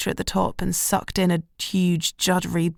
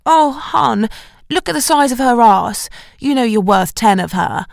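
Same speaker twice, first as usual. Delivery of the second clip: consoling friend; 4 semitones higher, 4 dB louder than usual. Acted. Friend consoling, voiced quote.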